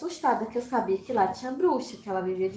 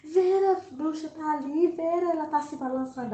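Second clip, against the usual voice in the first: much higher, crying panic; a scared child crying to her friend; frightened cry; 7 semitones higher than usual. Retold or imitated. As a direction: blurt it out near tears.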